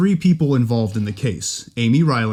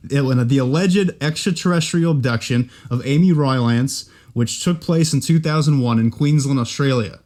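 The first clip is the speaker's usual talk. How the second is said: Australian accent. Shown as a demonstration. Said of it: "in the accent there".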